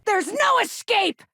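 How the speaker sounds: high, slow, menacing battle taunt. Acted. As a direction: threaten the cornered enemy slowly. Enemy taunt in combat.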